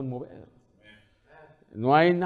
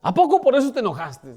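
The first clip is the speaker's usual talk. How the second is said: higher and louder, incredulous jab; mock indignant retort; 8 semitones higher, 5 dB louder than usual. The other person snapping back, higher and louder. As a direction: fire it back like a petty quarrel. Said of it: "voicing the other side of a quarrel".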